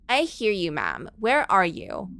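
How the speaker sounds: lightly voiced Valley Girl 911 operator; a hint of a bubbly Valley Girl dispatcher. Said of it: "the Valley Girl nine one one operator".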